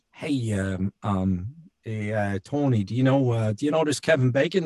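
casual Boston fireman, imitated; Boston accent. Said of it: "speaking of accents".

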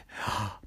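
quick audible intake of breath; sudden little gasp. Acted. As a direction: gasp like a startled kid. Kids react before costume question.

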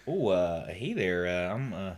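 halting mock-Canadian greeting; Canadian accent. Shown as a demonstration. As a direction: feel your way into a Canadian voice. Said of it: "your first attempt at a Canadian".

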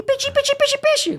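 very high, squeaky little shark voice; cute cartoon voice. Shown as a demonstration. Dubber demos his softened version of a cartoon shark, cute and high. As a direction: chirp it like an adorable baby shark. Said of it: "Botei bem uma coisa mais fofinha".

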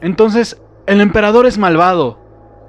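high, loud, slow tearful shout; shouting through tears. Acted. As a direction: yell while fighting back tears. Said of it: "grito, luchando contra las lágrimas".

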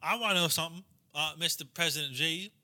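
put-on redneck standing up to question, Southern accent. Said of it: "some redneck, like, stands up".

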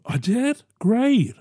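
quiet, lightly voiced dazed Biden; a soft, puzzled little "great"; Biden impression. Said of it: "my Biden impression".

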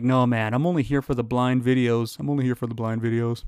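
lightly voiced complaining viewer; mock viewer. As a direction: grumble like a fed-up fan. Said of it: "or you're like".

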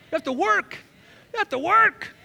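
high, loud You have to work; preaching shout. Acted. Preacher repeating the point.

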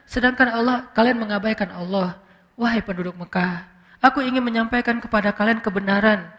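imitating a soft, measured proclamation; gentle solemn address. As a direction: address the people quietly and earnestly, without force. Acts out the Prophet's solemn address.

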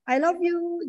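high singsong endearment; tender, drawn phone sign-off; loving parent goodbye. Shown as a demonstration. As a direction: lilt it sweetly to a small child. Models sweet goodbye to child.

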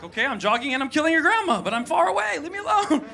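mock whiny leave me alone; exasperated plea. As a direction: beg her to back off, building. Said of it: "I'm like".

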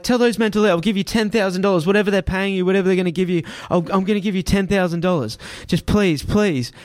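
high, pleading offer; desperate begging. Retold or imitated. Man begging the driver to send the men off, pleading. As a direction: beg him to send them away.

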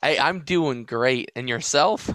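slow, put-on Southern accent. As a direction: answer in a light Southern drawl. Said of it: "I like your Southern accent".

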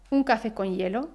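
"hielo" dicho "yelo" en la frase; H como Y. Shown as a demonstration. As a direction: haz sonar una ye al empezar "hielo". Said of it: "escuchamos ese sonido ye". ("hielo" pronunciado "yelo")

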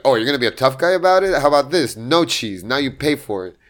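lightly mocking a cocky customer; offended sass. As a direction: call out the tough guy, sassy. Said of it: "as soon as I got offended".

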